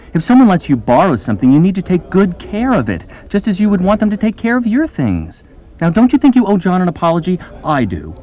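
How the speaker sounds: a hint of preachy teacher, rising; moralizing lecture. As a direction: lecture them, mildly sanctimonious. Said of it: "a teacher who lectures and moralizes".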